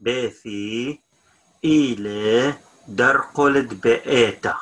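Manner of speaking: slowed down, word by word; careful teacher's repeat; slow model repeat. Shown as a demonstration. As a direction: say it slowly so learners can follow. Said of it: "teacher repeats slowly for learners".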